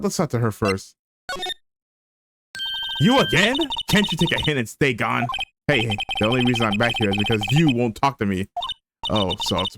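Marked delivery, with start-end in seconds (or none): 3.0-5.3 annoyed. Acted. Annoyed witness confronts lawyer again.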